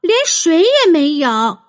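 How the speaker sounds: put-on indignant girl shouting. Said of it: "阿丽亚喊".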